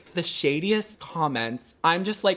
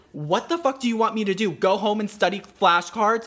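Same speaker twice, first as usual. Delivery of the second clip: retold exasperated rant, pitched up; mildly heated mock outburst; pissed off; 4 semitones higher than usual. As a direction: replay an indignant comeback. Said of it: "I was so pissed".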